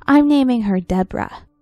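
put-on excited kid voice. Child character voiced.

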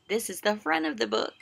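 quick hushed whisper. Shown as a demonstration. Teacher whispering to children about the book. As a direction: rush it out in a whisper.

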